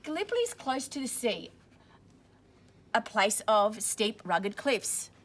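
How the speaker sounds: clear, steady storybook reading; reading to children. A narrator's reading. Teacher reading a war story to children, steady storybook voice. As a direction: read it out for the class. Reading picture book aloud to class.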